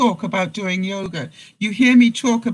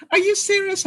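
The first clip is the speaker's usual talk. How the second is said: imitating disbelief; 12 semitones higher than usual. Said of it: "people would look at me and go".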